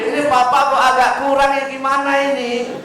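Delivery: high, mocking voice of a child fed up with dad; grown child scolding. Grown child scolding his father, high mocking impatient voice. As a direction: sound like a kid rolling their eyes at papa. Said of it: "dia marahin papanya".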